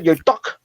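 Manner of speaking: "duck" for dick, with a blunt uh; New Zealand vowel. Shown as a demonstration. Comedian showing Kiwi vowels, blunt "duck" for dick. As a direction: flatten the i until it is "duck". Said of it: "go the other way as well".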